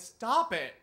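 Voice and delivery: loud, high-pitched command; forceful imitated outburst; retold protest. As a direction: cry out to halt a bully. Classmate stands up to the teacher.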